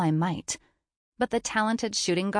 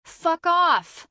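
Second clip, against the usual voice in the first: high, loud snarled retort; snarling; 10 semitones higher, 6 dB louder than usual. Acted. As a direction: spit it back in a furious snarl. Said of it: "I retort with a snarl".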